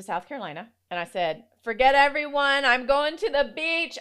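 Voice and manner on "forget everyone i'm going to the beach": retold outburst. Retold defiant self-quote.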